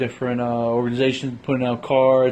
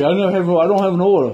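mock Brooklyn clerk; 3 semitones higher, 3 dB louder, faster than usual. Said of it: "Then you're like".

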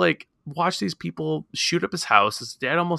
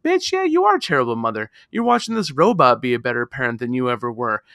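exasperated retort; 2 semitones lower than usual. Retold or imitated. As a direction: fire back at her, exasperated. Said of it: "It's like".

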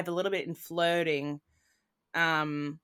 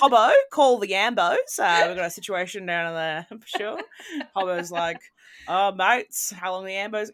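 broad Australian; 5 dB louder than usual. Retold or imitated. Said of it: "so painfully Australian".

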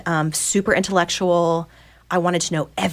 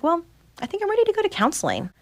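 higher, fast, eager little confession; eager announcement; 12 semitones higher, faster than usual. Retold or imitated. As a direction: rush it out with nervous excitement. Announcing readiness to friend.

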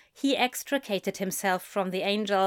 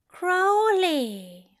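higher gentle angel voice calling his name; soft gentle call; 9 semitones higher than usual. A narrator's reading. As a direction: call him softly, tenderly. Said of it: "he said softly".

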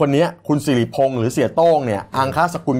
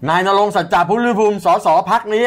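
imitating MP roll call; 6 semitones higher than usual. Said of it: "ปกติเนี่ยเวลาเขาจะให้สสเป็นคนขานชื่อว่า".

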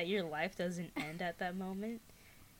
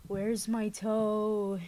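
slow drawn-out groan, louder; ghostly groan; 3 dB louder, much slower than usual. Acted. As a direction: moan it like a ghost hunting its toe. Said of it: "it groaned".

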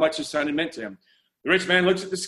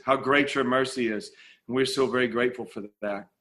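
prayer; 2 semitones lower than usual. Acted.

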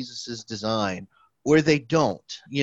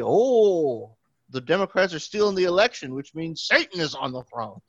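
higher, hurried mock panic; mock outrage; 5 semitones higher than usual. Parodying people who suddenly claim a stolen election, mock panic.

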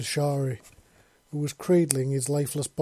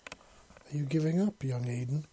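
sweet, powerful voice. Acted. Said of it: "sweet and powerful all at once".

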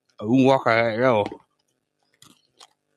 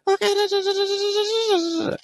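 fake agreeable; much slower than usual. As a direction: play along sweetly without meaning it. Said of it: "I was like".

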